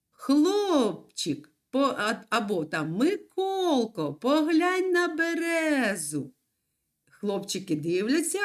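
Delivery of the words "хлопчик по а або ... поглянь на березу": put-on a raised, calling-out line for a girl; lightly voiced girl. Girl telling a boy to look at birch, lightly voiced. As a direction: call to a boy as a little girl, lightly acted. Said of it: "Дівчинка, наприклад, каже".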